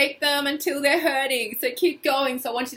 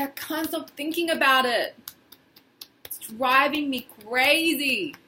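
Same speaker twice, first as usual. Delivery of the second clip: exaggerated frustration; 2 semitones higher, 4 dB louder than usual. Shown as a demonstration. Coach modelling words for the tapping group, exaggerated frustration. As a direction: overplay the frustration on purpose. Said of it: "Really say it the way I'm saying it".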